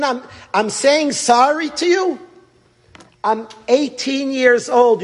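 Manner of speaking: mild retold crying plea to God; a young man's hurt, rising plea; understated tearful outpouring; pleading, near tears. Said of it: "Then he starts crying".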